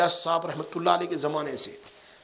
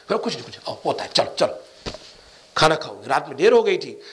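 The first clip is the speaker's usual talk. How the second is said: gentle welcome; 2 semitones lower, much faster than usual. Retold or imitated. Elder gently welcoming him back.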